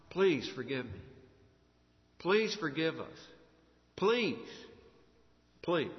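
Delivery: imitating frightened pleading in short, spaced pleas; mock begging for mercy; mild acted plea out of fear; fearful begging. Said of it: "They're begging out of fear".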